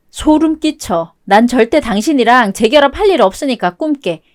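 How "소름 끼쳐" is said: slow, repulsed remark; drawn-out revulsion; disgusted. Acted. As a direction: let the disgust crawl through it slowly. Wife repulsed by husband's pleading.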